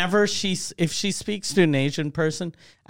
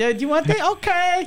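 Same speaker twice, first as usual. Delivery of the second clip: much higher imitation of an Asian accent; mock Asian accent; 12 semitones higher, faster than usual. Imitating wife talking to Chinese employee, mock Asian accent. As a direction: pitch it high in a put-on Asian accent. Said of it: "she kinda sounds a little Asian".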